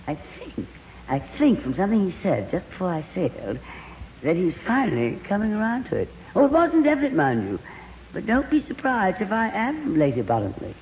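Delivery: gushing glamorous actress. Acted. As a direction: coo over him like a diva. Plays Lorraine.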